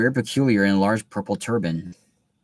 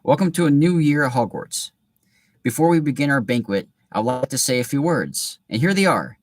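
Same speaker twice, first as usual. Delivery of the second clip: put-on higher, louder and beaming old headmaster; beaming Dumbledore; 5 semitones higher, 3 dB louder than usual. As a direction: open arms, greet the whole school. Dumbledore's speech voiced.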